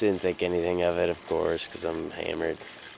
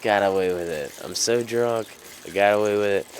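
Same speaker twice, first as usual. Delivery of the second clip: louder, excited gloating; gleeful; 3 semitones higher, 3 dB louder, faster than usual. Retold or imitated. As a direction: gloat out loud. Gleeful private thought.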